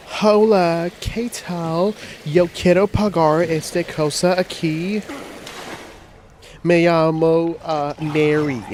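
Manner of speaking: put-on high, loud, slow gringo-accented Spanish; mocking gringa Spanish. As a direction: parody a white lady's clumsy Spanish. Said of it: "She comes up to me, she's like".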